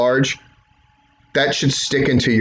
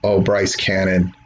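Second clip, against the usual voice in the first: lower, slow, suspenseful call; building tension; 5 semitones lower than usual. Shown as a demonstration. Showing commentators how to build suspense, slow and low. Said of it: "building up some sense of tension".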